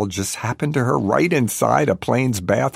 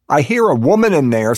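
loud, higher nosy holler; meddling shout, pitched up; busybody yell; 6 semitones higher, 7 dB louder than usual. A narrator's reading. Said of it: "some other busybody lady yells".

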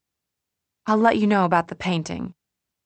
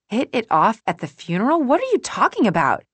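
sharp, higher-pitched indignation without full volume; mean contained yelling; 6 semitones higher, 4 dB louder than usual. A narrator's reading. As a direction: yell at them without really raising the volume. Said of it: "my voice doing that thing where I sound mean, where I'm yelling without raising the volume".

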